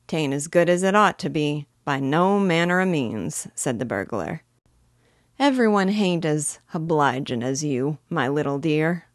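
bossy thief, heavy Cockney; gruff Cockney burglar. Acted. Burglar on his business.

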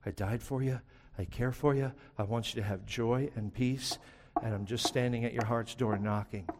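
soft, tender pleading; Jesus gently calling the believer, softly; gentle Jesus. Retold or imitated. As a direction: speak softly like Jesus at the door. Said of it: "all Jesus ever does is like".

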